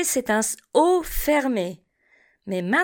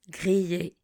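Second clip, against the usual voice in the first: Grillé repeated softer and lower; 4 semitones lower, 6 dB quieter than usual. Shown as a demonstration. Teacher echoes Grillé quietly for the class. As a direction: softly echo Grillé. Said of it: "Répétez après moi".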